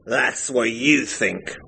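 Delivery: slurred. Acted. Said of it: "Favell slurred".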